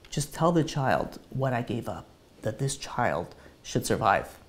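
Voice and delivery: soft, slow, fading plea; dying wish. Retold or imitated. Dying wife repeats last wish.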